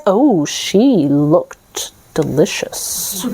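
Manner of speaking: slow, low, savoring delicious; sinister relish. Acted. Death eyeing the girl as food, slow low relish. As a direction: relish it like a hungry predator.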